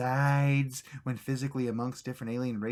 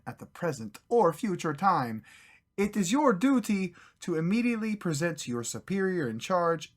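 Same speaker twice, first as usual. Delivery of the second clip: put-on Russian accent; 4 semitones higher, 4 dB louder than usual. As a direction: read the orders as a hammed-up Russian agent. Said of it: "I am terrible at accents".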